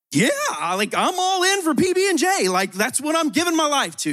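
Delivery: high-pitched gushing enthusiasm; sky-high, all-in excitement; captivated devotee. Acted. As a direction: play an eager, instantly won-over fan. Acting out a captivated listener.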